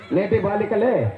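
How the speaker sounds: slow, stretched-out joke slogan; mock-solemn quote, very drawn out; drawn-out recitation. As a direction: recite it slowly, dragging out the last word. Puppet mockingly recites leader's secret saying.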